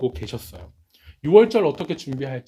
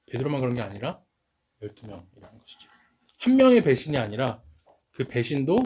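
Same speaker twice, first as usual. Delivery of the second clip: usual speaking voice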